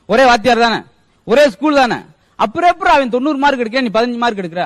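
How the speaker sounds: loud cross-examining father; hammed-up parental interrogation; scolding father. Father grills son over low marks.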